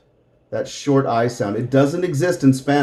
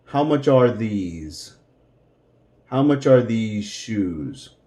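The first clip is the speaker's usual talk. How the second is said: slow drill build-up; 3 semitones lower than usual. Shown as a demonstration. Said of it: "let's take a look at the pronunciation".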